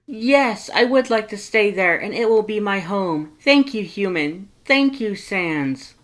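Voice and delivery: high, loud grateful yell; loud happy skeleton thanking everyone; yelling Papyrus. Acted. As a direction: shout your thanks with joy. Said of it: "Papyrus is still yelling".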